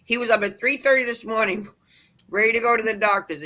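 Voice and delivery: high, lively mock exclaim of the wife; excited retelling. Group leader retelling the wife's outburst about her husband, excited and high. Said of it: "and she said".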